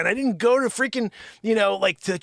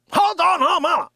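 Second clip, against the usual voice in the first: higher, louder hold on; raised, insistent hold on; louder insistence; 9 semitones higher, 8 dB louder than usual. Real, not acted. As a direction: cut them off firmly.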